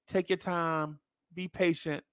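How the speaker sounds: soft, soothing placation; gently hushed mock reassurance; mock patience. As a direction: imitate someone calmly counselling patience. Contrasting patient fan after angry customer.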